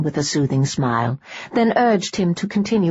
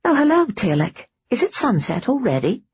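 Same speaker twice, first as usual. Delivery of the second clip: higher, cheery greeting; bright and cheerful; 6 semitones higher than usual. Acted. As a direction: greet him with a bright smile. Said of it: "smiled brightly".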